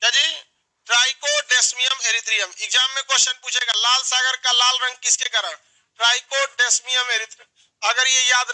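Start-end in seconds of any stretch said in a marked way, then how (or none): 0.9-2.6 slow, syllable by syllable; slow drill. Shown as a demonstration. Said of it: "चार बार बोलिए". 6.0-7.5 slow, syllable by syllable; slow drill. Shown as a demonstration. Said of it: "चार बार बोलिए".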